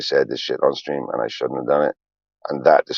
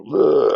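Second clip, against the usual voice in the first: imitated crying groan; 12 semitones higher than usual. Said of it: "When I have my crisis".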